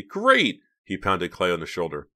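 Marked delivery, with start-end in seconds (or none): 0.0-0.6 very high, loud exclamation; elated high-pitched cheer; excited. A narrator's reading. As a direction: burst out in delight. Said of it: "Mickey declared excitedly".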